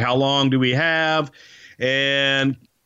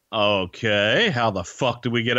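dubious acceptance; 2 semitones lower than usual. Retold or imitated. Wrestlers first hearing the fire plan, hesitant and dubious. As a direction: imitate wary agreement with misgivings.

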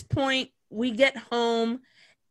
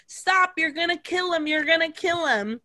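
higher-pitched retold alarm; mock urgent plea; 5 semitones higher than usual. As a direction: imitate a friend begging him to stop. Friend intervenes in the beating.

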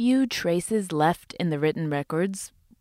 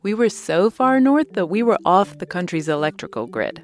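lively sponsor anecdote with punched words; ad read; 3 dB louder than usual. Acted. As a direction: tell the trip like an enthusiastic advert. Host tells sponsor travel anecdote.

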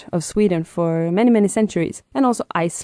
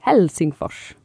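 Finnish accent of Swedish; slower than usual. Shown as a demonstration. Swedish guest demos Helsingfors in a Finnish accent. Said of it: "if I would say it in the Finnish accent of Swedish".

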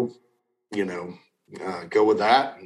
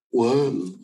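yawning; 3 semitones higher than usual. Real, not acted. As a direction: yawn escaping mid-sentence. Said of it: "why am I yawning?".

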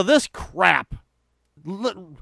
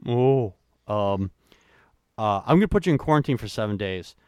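lightly voiced, lower, hesitant priest; dithering priest; 8 semitones lower, 4 dB quieter than usual. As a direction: mumble like an unsure doctor. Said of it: "we have to look at spots and go".

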